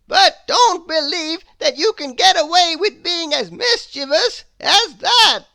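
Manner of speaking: loom over the culprit as a stern wizard. A narrator's reading. Wizard scolding Mister Mischief, stern and loud. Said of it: "said the wizard".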